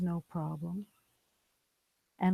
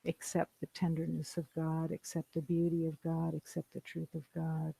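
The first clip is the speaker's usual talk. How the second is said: gentle closing blessing; 5 dB quieter than usual. Real, not acted. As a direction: let it settle quietly into rest. Closing blessing, softly spoken.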